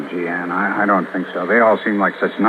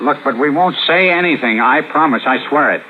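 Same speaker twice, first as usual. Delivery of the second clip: higher, frantic begging; pleading promise; 6 semitones higher than usual. Acted. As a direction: swear it to save her. Husband begs gangsters for mercy.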